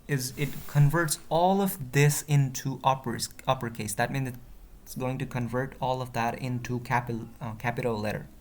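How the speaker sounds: slight stutter, words restarting. Real, not acted. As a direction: trip over a few words. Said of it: "I'm a little bit stuttering".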